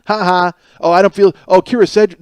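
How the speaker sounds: mock snark. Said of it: "the one guy wrote this".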